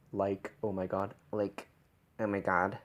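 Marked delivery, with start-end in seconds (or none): 1.3-2.8 "oh my God" with fronted, bright vowels; "God" said forward, close to "gad"; brighter vowels. Shown as a demonstration. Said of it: "shifting the vowels brighter".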